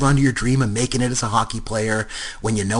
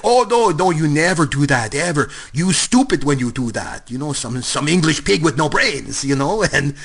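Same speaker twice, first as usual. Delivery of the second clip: put-on French accent; 3 semitones higher than usual. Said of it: "it's this French player".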